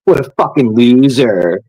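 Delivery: mimicking critics with a scornful sneer; mocking sneer. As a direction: sneer it like the people judging him. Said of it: "Sat there pointing your finger".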